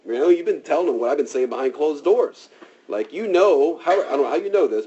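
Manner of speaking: a lightly voiced furious king accusing; mock angry king.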